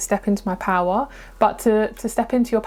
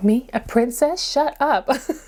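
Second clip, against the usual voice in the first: put-on slow, unconvincing American accent; 4 semitones higher than usual. Speaker retells a scene from Princess Diaries, in a bad Anne Hathaway accent. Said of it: "it's such a bad accent".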